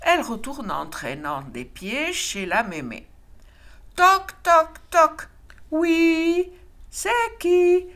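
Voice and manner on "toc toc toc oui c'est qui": mock knocking. A narrator's reading. Knock, grandma answers.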